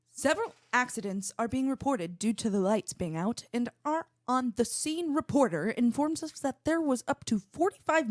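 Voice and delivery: news read. Shown as a demonstration. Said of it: "I'll read the rest of this".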